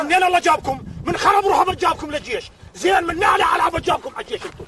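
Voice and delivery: high scornful berating. Acted. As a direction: tear into the recruits. Sergeant berating recruits.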